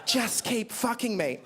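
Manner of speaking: slow, hushed mock mum; mum's whispered plea. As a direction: draw it out slowly, lightly voicing mum. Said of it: "And then my mum said".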